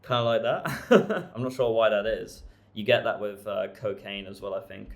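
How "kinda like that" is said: jaw swing demo. Shown as a demonstration. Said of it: "a swinging jaw".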